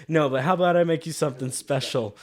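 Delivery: sugary polite offer; polite bartender. Retold or imitated. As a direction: ever so polite to his face. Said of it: "so polite to his face".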